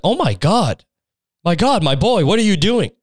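hammed-up high, scandalized headmaster; shocked Dumbledore. Headmaster reacts to a shameless student, mock shock. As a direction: gasp it out in mock horror, pitch swooping. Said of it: "He's like".

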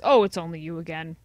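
a hint of a sly salesman, fast; citizen of Melee. Citizen of Melee greeting a returning customer, sly. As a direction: wheedle like a shifty street vendor. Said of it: "I forget his voice".

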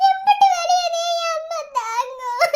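slow, tearful question; slow crying. Acted. Daughter crying over how much pain her mother must bear.

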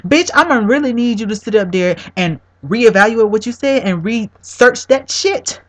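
angry demand. Real, not acted. Angrily lecturing the preacher.

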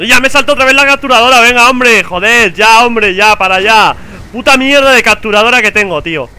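real rage; 1 raging. Real, not acted. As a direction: blow up at the broken capture card. Capture card fails, raging.

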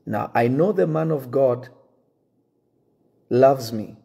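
ordinary talk, nothing marked

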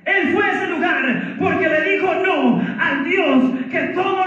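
high, fervent pulpit voice; preaching at full force. Real, not acted. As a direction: proclaim it to the congregation. Predica con fuerza ante la congregación. (prédica fervorosa a plena voz)

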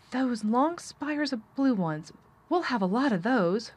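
put-on lofty boyish announcement, drawn out; announcing. A narrator's reading. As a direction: declare it slowly like a self-important boy. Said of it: "Colin was announcing".

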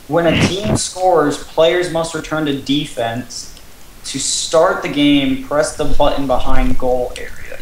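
slow, measured instruction read; reading rules aloud. Real, not acted. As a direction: read the steps out with deliberate spacing. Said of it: "while I read the rules".

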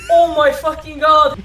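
mock-tearful fanboy awe with laughter creeping in; overwhelmed fan. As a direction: gush as if about to cry. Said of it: "I'm actually gonna cry".

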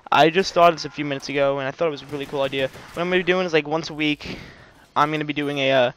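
breathless, slightly winded talk; talking while catching breath. Real, not acted. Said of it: "Sorry, I'm out of breath".

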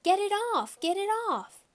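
put-on high, loud shriek of protest from a small boy; screaming child. A narrator's reading. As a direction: shriek it like an upset preschooler. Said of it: "Sam screamed".

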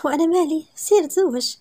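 mock-indifferent brush-off; offhand. A narrator's reading. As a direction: toss it away like it doesn't matter. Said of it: "قالت بلا مبالاة".

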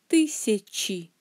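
тысячи with a clear final chi; ending in I. Shown as a demonstration. Teacher showing the plural ending, тысячи closed on a clear i. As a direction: end тысячи on a distinct i. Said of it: "avec terminaison i".

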